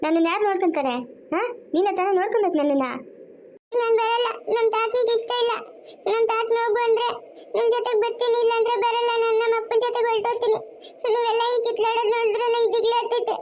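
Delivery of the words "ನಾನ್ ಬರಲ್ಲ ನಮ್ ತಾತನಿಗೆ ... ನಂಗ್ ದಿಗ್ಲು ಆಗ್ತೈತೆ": put-on crying child. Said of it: "ಯಾಕಮ್ಮ ಅಳ್ತಾ ಇರೋದು ನೀನು".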